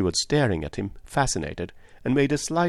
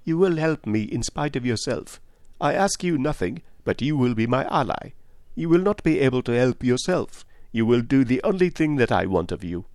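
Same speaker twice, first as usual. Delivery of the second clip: higher, assured detective; Poirot; 4 semitones higher than usual. Acted. Detective predicts she will be his ally, assured. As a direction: overrule the refusal calmly.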